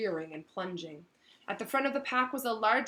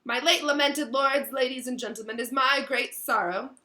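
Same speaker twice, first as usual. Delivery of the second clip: raised, ceremonious oration; louder, higher podium voice; formal speech; 5 semitones higher, 7 dB louder than usual. A narrator's reading. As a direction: address the gathering grandly. Ghost begins a formal speech.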